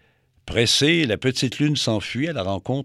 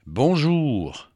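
weary voice. Acted. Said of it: "d'une voix lasse".

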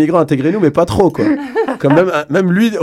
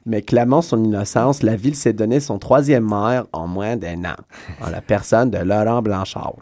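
news article read-out; 3 semitones lower, 3 dB quieter than usual. Real, not acted. Reads out newspaper article.

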